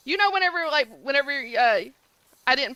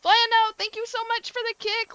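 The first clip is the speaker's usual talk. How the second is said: excited shout-out; 10 semitones higher, 5 dB louder than usual. Real, not acted. Thanking viewer for the kick.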